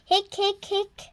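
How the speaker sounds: three quick hiccups, light and playful; hiccup sounds. A narrator's reading. Reading to a child, doing Hector's hiccups. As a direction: hiccup like a little boy. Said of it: "Then it was Hector's turn".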